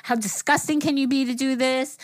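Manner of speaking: mad. Retold or imitated. Telling a friend about scrubbing her hands, retold anger. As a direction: rant in mild, retold disgust. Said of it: "I'm so mad. I'm like".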